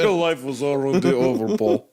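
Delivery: mock Russian accent. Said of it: "in, in Russian".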